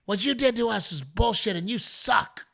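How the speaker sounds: high, dismissive mock voice; mock heckler woman. Heckler woman waving off the comic's excuse, high mock voice. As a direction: brush him off like a stubborn fan. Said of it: "she goes".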